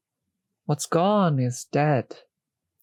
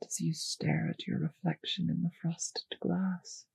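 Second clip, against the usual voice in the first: whisper; 7 dB quieter than usual. Acted. Vampire murmuring to captive pet.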